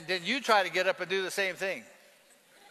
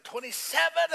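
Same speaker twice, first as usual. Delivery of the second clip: called-out number; 9 semitones higher than usual. Retold or imitated. Prisoner calls out a number.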